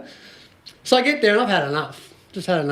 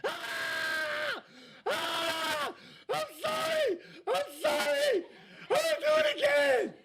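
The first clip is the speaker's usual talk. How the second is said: shrill mock screams, much higher and softer; mock terrified screaming; 9 dB quieter, much slower than usual. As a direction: play a panicked teen begging in the car. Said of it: "What do you think she's doing?".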